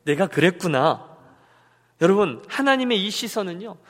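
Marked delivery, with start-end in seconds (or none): 0.0-1.2 slow, understanding acknowledgment; mild tender understanding; compassionate. Acted. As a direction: say it slowly, with sympathy. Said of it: "지극한 연민의 눈으로".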